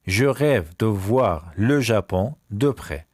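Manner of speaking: very slow, word-by-word French; slow repeat. Shown as a demonstration. Teacher repeats a sentence about Japan, very slowly. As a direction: draw out each word group.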